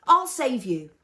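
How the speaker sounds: loud, high brave shout; yelling. A narrator's reading. Fez shouting to BB-8 that he'll save him, loud. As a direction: call out a promise. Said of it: "Fez yelled".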